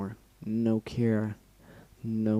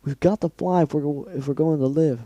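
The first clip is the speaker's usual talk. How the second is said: pleading; 4 semitones higher than usual. Acted. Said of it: "Skulu pleaded".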